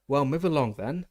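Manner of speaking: a teacher sharply herding wet students. A narrator's reading. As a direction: hurry the crowd along crisply. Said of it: "said Professor McGonagall sharply".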